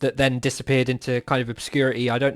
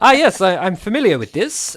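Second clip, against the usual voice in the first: eager wizard; 5 semitones higher, 5 dB louder than usual. Acted. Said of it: "he's like".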